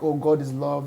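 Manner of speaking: lightly imitated gentle reassurance; gentle preaching. Contrasts white churches' gentle emphasis.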